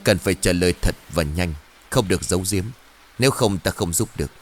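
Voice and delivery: low, firm master's warning; stern master. Acted. Master Lương pressing Trang to answer truthfully.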